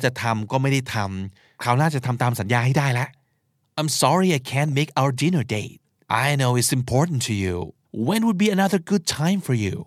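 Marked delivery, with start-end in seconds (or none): 3.8-9.8 sincere. Shown as a demonstration. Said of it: "พูดอย่างจริงใจ".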